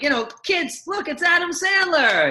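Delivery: excited announcement. Retold or imitated. Stage manager hyping Adam Sandler's entrance to kids, excited shout. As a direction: build it up like a big reveal. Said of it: "our stage manager was like".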